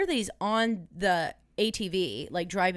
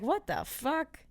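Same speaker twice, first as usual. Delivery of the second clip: high stunned what the fuck; reacting to aunt's creepy dream, high and stunned; mock disbelief; 8 semitones higher, 3 dB quieter, slower than usual. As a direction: squeak it out in disbelief. Retold shocked reaction.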